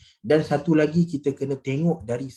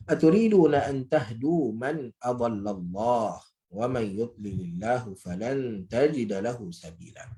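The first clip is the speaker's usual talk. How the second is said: slow, measured Arabic recitation; drawn-out, reverent verse reading; Quran recitation; slower than usual. Real, not acted. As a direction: recite the verse slowly with elongated vowels.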